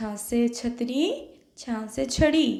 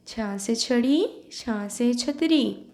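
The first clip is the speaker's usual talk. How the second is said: slowly drawn out with a puff of air on छ; slow model reading; slower than usual. Shown as a demonstration. Teacher repeating the drill for the class, slow. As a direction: say it slowly for pupils to echo. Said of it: "Repeat after me".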